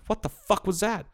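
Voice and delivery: high-pitched incredulous question; baffled alarm. Retold or imitated. Retelling shutting off the rattling truck, high bewilderment.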